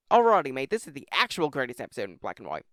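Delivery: put-on a light, half-hearted Australian accent; mock Aussie bloke, loud on the greeting; casual Australian twang, barely held. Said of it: "Sorry for the Australian accent".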